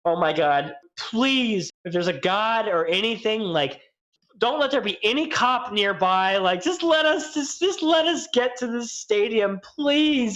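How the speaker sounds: pleading high and rising, please please; desperate silent prayer. Retold or imitated. Driver praying no cop sees the piss. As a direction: beg under your breath for no cops. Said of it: "thinking to myself".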